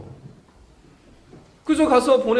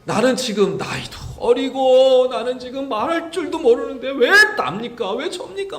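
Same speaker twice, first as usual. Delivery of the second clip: higher, indignant protest; mild arguing complaint; 5 semitones higher, 4 dB louder than usual. Retold or imitated. Jeremiah arguing with God, mild indignant complaint. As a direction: argue back like a sulky kid. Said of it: "막 그러고 따지고 있는 거예요".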